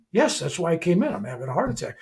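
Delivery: calm and matter-of-fact; unbothered, just stating it; calmly. Retold or imitated. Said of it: "I just calmly go".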